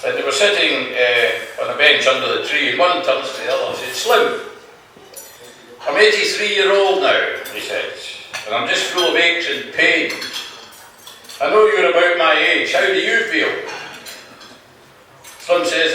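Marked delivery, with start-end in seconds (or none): 3.9-7.3 put-on higher-pitched old man voice; elderly man. Old man to his friend on the bench, higher-pitched complaint. 8.5-13.5 lightly voiced old man, raised pitch; elderly man. Old man asks his friend Slim, higher-pitched complaint.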